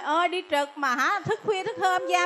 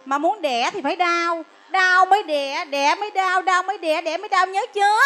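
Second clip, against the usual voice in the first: higher, chanted scolding; sing-song lecture; 3 semitones higher, 3 dB louder than usual. Acted. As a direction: drill the rhyme into the patient. Nurse lecturing patient sing-song.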